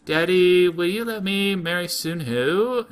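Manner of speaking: lightly voiced begging daughter; pleading daughter. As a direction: whine it up like a spoiled princess. Daughter pleads with king father.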